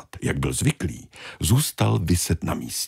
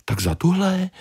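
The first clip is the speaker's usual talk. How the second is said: much higher questioning squeak; little fish asking; 13 semitones higher than usual. Acted. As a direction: ask like a tiny fish. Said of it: "zeptala se malá ryba". (malá rybka se ptá, vysoko)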